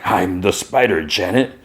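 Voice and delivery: put-on lightly slurred drunk voice; mild drunken slur; drunk slurring.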